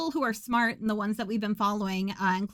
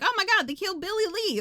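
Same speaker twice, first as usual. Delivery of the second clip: mock panicked cry; 9 semitones higher, faster than usual. Panicked man running in.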